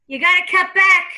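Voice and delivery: mildly pushed New York grandma; New York accent. Acted. Medium relaying grandma's advice to client, New York accent. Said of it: "I wanna talk with the accent".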